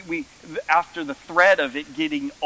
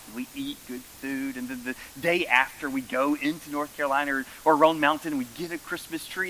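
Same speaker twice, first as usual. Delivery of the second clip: imitating mom. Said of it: "She says".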